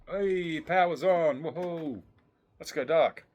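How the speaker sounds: loud, high, delighted cheer; excited shout. Real, not acted. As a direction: whoop with joy. Power comes back on, excited.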